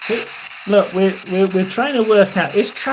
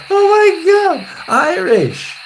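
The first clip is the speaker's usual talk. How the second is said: much higher and louder, a thrilled cry; excited shriek; 12 semitones higher, 6 dB louder, slower than usual. Real, not acted. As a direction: shriek with real delight at the answer. Reacts to the Irish accent.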